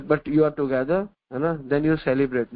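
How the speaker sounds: very slow, word by word; slow maxim. Acted. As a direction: spell out the lesson slowly for the listeners.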